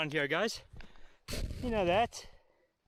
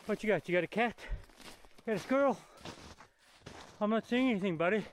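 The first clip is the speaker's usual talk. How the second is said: excited dog talk; 5 semitones higher, faster than usual. Real, not acted. Calling to dog Ranger.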